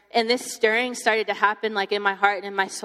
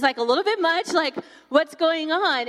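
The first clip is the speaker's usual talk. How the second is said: baffled; 6 semitones higher than usual. Retold or imitated. Overwhelmed listener questioning a friend's intensity, baffled. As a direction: re-enact being thrown by someone's intensity. Acts out bafflement at Kim's excitement.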